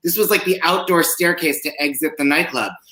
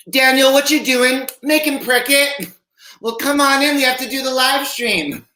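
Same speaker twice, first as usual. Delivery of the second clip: much higher, campy Southern lady greeting; high mock Southern hostess; 11 semitones higher than usual. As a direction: sing it out like a genteel Southern hostess welcoming a guest. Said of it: "sounds like a statement".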